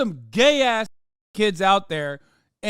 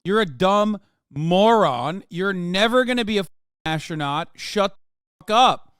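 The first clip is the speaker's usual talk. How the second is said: louder, slowing into a mock tirade at the kid; mock parent yelling; 5 dB louder than usual. Mocking a conservative parent yelling at the child. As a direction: berate the child in a hammed-up rage. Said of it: "I'll be like".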